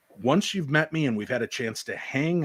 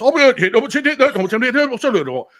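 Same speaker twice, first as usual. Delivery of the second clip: high, loud English gibberish; mock an incomprehensible English shop woman; loud stream of exaggerated English babble; garbled English accent; 10 semitones higher, 9 dB louder, much slower than usual. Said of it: "This lovely English, uh, woman steps up".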